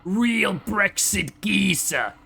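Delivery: mock English accent, half Australian; British geezer accent. Streamer mimicking a British guy on benzos, mock British accent. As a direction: put on a slow, hammy British geezer. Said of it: "a drug a British guy would take".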